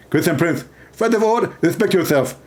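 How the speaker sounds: a light parody of a preacher's lecturing voice; half-hearted preacher impression; mock Zakir Naik. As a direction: play a pompous debater, lightly. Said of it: "He speak like this".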